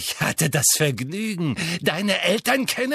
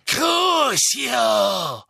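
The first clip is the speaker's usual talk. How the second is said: higher, louder shouted curse; Bellatrix cursing; 9 semitones higher, 5 dB louder than usual. A narrator's reading. Bellatrix torturing Neville, shouted curse. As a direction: spit out the curse.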